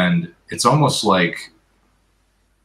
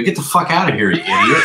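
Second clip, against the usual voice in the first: mock angry shout; 12 semitones higher, 5 dB louder than usual. Rude stranger telling off a helper, laughing mock shout. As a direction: shout it high and loud, half laughing.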